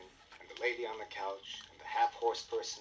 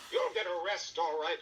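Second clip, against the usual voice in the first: much higher, louder triumphant shout; commanding shout, higher and louder; 9 semitones higher, 7 dB louder than usual. Acted. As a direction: burst in shouting at the thieves. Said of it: "shouted Mister Dart".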